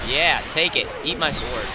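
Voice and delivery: loud. Real, not acted. Fighting zombies with a sword.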